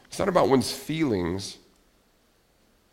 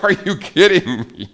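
higher and louder, mock outrage at the laptop; exasperated disbelief; 8 semitones higher, 9 dB louder than usual. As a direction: play the annoyed shock at the warning. Retold laptop low battery moment.

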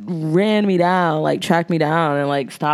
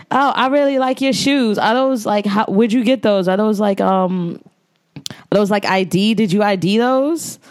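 imitating the lady's hood New York accent, higher; a lady from the hood in New York asking about shoes, higher; 4 semitones higher than usual. Stranger stopping her on the street over shoes, in a hood New York accent. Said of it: "that was her accent".

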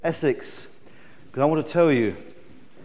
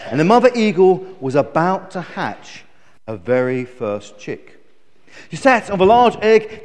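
lively, emphatic storyteller; animated children's story narration; storytelling; 5 semitones higher, 3 dB louder than usual. Acted. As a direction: draw children into a grand tale.

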